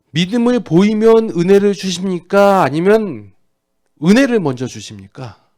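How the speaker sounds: loud, high rhetorical questioning; preach. Real, not acted. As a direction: drive the question home to the congregation. Preaches at full force. (힘주어 외치는 설교조)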